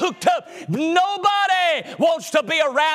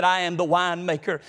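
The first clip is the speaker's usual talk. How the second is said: low, calm divine answer; calm lower voice of the Lord; voice of God; 7 semitones lower than usual. Acted.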